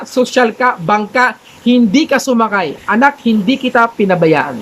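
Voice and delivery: a lightly deepened God, patient and gentle; mild booming voice from heaven. Acted. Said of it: "Ano sabi ng malaking tinig?".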